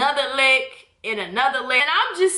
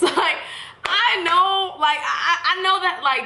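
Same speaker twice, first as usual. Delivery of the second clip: laughing; 6 semitones higher than usual. Real, not acted. Laughing recalling it.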